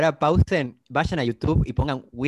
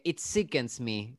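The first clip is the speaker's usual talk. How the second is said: quoted line; 6 dB quieter, much slower than usual. Retold or imitated. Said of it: "un personaje dice".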